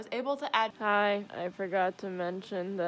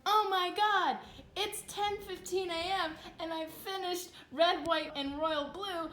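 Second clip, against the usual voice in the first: high, put-on pet voice; voicing a pet; 7 semitones higher than usual. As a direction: lightly play the cat. Pet reenactment voice, higher.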